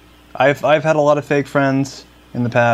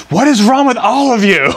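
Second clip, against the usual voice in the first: high, loud mock outburst; imitated freak-out; 11 semitones higher, 6 dB louder than usual. Imitating a woman freaking out at noisy students in a library, high mock yell. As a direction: shriek it in imitation of someone losing it. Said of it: "she totally freaks out".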